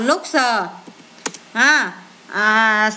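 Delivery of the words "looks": "lookser" with a separate "sờ" on the end; added s sounded. Shown as a demonstration. Teacher showing pupils verb endings, s sounded out. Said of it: "thêm sờ vô đọc là".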